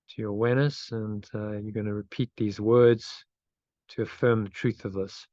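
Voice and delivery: unhurried meditation lead-in with long pauses; guided meditation. Real, not acted. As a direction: guide them gently into breathing, leaving space. Leads a meditation.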